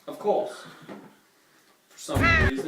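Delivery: mock British accent. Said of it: "Are you British now?".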